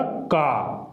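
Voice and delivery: का said long and open; model syllable. Shown as a demonstration. Teacher to students, demonstrating का. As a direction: stretch का clearly. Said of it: "उच्चारण हो जाएगा".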